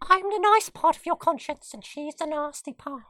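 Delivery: very high squeaky ferret voice. Pretend. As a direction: squeak back like a ferret student. Ferret student role play.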